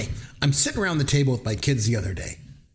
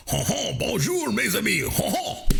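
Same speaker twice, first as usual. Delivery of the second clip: son's Doctor Evil bit; 8 semitones higher than usual. Retold or imitated. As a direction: belt out a high hammed-up villain hello. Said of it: "So my son gets on there and he goes".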